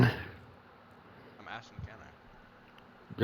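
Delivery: slow breathy whisper. Real, not acted. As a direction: whisper the request. Whispered request.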